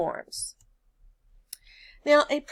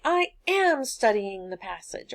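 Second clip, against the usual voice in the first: emphatic AM, insisting to mom; stress on AM. Acted. Student answering mom's question, stress on AM. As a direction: lean on "am" as a pointed answer. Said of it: "look around at her and you say".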